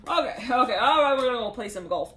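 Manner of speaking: loud and upbeat; excited. Retold or imitated. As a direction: call it out eagerly.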